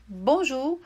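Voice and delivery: Bonjour with French U, bõʒu. Shown as a demonstration. Teacher repeating for student: French bonjour. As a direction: repeat Bonjour slowly and clearly. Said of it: "o U ... som de U".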